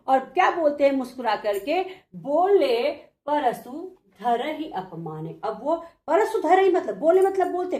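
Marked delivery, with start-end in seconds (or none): 2.1-5.4 slow, measured chanting of the Manas line; slow devotional verse reading; slow verse recitation. Shown as a demonstration. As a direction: draw the verse out slowly like a recital.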